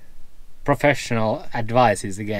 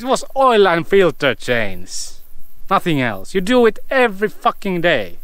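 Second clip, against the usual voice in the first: higher-pitched exasperated venting; 7 semitones higher than usual. Real, not acted. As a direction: vent in disbelief at careless work, pitch up. Venting about routine filter change mistake.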